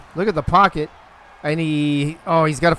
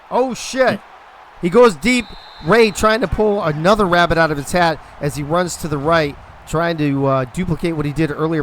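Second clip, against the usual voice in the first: excited play call; 3 semitones higher, 4 dB louder than usual. Real, not acted. Sudden deep pass in game.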